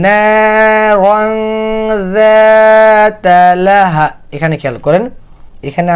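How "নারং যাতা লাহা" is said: নারং drawn out slowly with a held nasal; ikhfa nasal. Shown as a demonstration. Teacher showing ikhfa on নারং. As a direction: stretch নারং and hum the ং. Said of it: "এই জন্য আমরা বলছি".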